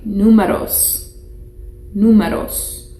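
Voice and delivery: números said NOO-meh-ros, stress on the first syllable; teacher modelling números; Spanish word model. Shown as a demonstration.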